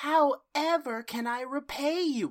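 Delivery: lightly mocked over-the-top apology; Barbara Eden. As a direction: grovel theatrically, only half in earnest. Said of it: "Barbara Eden basically go".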